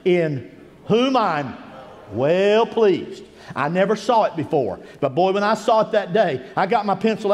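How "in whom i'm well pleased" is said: voice of God. Retold or imitated. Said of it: "and He says".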